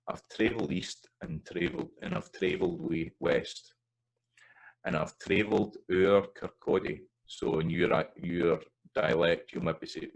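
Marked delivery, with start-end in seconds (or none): 0.1-7.0 ower said OW-er the Scots way; sing-speak the line with Scots ower Kirkcaldy; Scots lyric reading. Shown as a demonstration. Teacher demonstrating a Scots lyric line for singers, Scots pronunciation. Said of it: "you would maybe want the Scots form".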